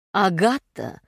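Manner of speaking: firm falling «Агата»; insistent. Acted. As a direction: press her name, insisting. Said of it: "настойчиво повторил Гивенс".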